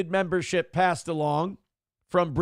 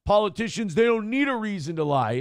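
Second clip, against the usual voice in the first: mocking viewer; 5 semitones higher than usual. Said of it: "gonna catch me a lot of shit".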